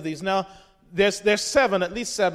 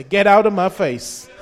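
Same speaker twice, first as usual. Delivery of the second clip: raised voice, firmly defiant; mild defiant shout; 4 dB louder than usual. Acted. Preacher rebukes the devil for the congregation, mildly shouting. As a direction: tell him off with some force. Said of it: "shout at the devil and say".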